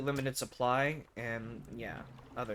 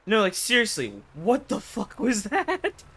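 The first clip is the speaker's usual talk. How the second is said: laughing disbelief; 8 semitones higher, 7 dB louder than usual. Real, not acted. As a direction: laugh it off after the fright. Laughing after the scare.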